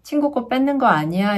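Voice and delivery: scolding. Acted. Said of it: "엄마가 보통 어떻게 훈육하죠?".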